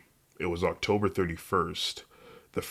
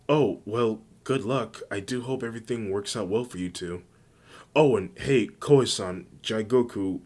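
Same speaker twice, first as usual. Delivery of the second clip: lightly voiced sweet, upbeat friend; a hint of a cheery character voice; perky friendly girl character, encouraging; 3 semitones higher, 3 dB louder than usual. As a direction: wish friends well in a slightly raised voice. Uraraka wishes friends luck.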